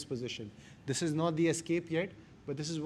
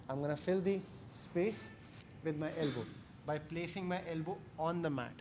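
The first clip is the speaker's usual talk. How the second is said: relaxed calm voice; 7 dB quieter than usual. Real, not acted. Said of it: "My voice did not change".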